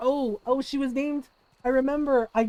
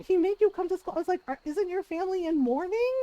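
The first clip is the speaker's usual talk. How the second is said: shocked disbelief; 6 semitones higher, faster than usual. Retold or imitated.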